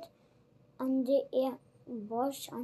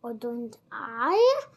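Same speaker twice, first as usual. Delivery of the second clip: snarled; 5 dB louder than usual. Acted. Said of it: "snarled Bill".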